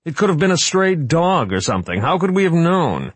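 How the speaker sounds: high, loud wail. Acted. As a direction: wail it out in protest. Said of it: "Wright wailed".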